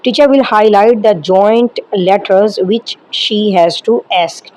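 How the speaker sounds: slow, measured English read from a script. Acted. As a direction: read each phrase out slowly like a formal guideline. Reads training script slowly in English.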